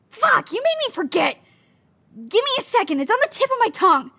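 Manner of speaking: frustrated. Acted. Made to forget what they meant to say, frustrated. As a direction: scramble to hold on to a slipping thought.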